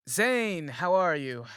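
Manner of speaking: loud, lifted call of the name; hearty greeting. Acted. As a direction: greet him loudly across the room. Kareem greets Zane.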